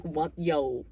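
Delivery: put-on loud, indignant rant at the kid; mock outrage. As Wendy yelling at Danny, loud and indignant. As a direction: pretend to tell Danny off. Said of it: "I'd be like".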